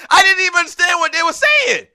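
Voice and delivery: high, loud, laughing exclamation; real laughter in the voice. Real, not acted. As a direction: crack up while getting the words out. Cracking up at his own story.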